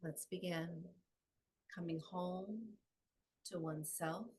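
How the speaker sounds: measured, calm phrases with long pauses; guided meditation. Acted. Yoga teacher guiding the class home to balance, calm meditative delivery. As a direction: guide them gently inward, phrase by phrase.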